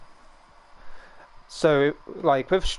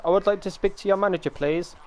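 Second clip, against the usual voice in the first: entitled customer; 6 semitones higher, faster than usual. Retold or imitated. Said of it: "comes from, like, tech support".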